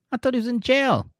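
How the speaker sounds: a husband who can't believe what he just heard; shocked disbelief. Retold or imitated. Husband reacting to news about Anthony, high shocked disbelief. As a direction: pitch jumps high in disbelief. Sean shocked by wife's answer.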